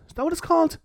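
put-on squeaky high posh English accent; a failed go at an English schoolgirl accent; mock English accent, pitched far up; attempted English accent. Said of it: "I tried to do her accent".

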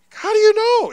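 high, loud mock disbelief; incredulous retelling. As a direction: blurt it out, baffled and amazed. Retold amazement at triplets' mom.

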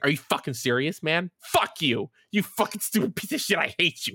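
high-pitched furious tirade, not shouted; angry in-character rant. Acted. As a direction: rant at him in a high, hurt, furious voice without screaming. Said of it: "Like, I went off".

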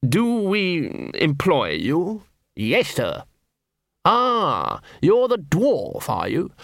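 slow, drawn-out aristocratic drawl; languid, as if light-headed; woozy patrician. Acted. Wounded patrician quizzing Nobby, slow and languid.

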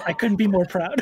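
proud book voice. Acted. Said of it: "It says".

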